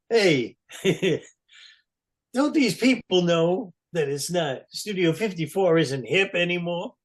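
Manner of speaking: mock a rock star griping about the crowd; lightly voiced rock star complaining; Paul's odd voice. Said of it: "he does have this really fucked up voice".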